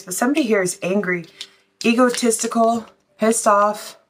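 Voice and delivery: breathless, winded delivery; out of breath. Real, not acted. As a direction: talk while short of breath. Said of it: "Sorry, I'm out of breath".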